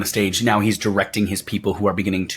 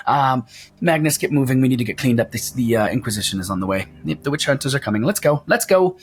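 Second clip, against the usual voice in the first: higher, brisk barker clearing the crowd; pitched-up ringmaster shooing everyone out; Wolfgang, hurried showman; 9 semitones higher than usual. Acted. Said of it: "and his eyes narrow, and he goes".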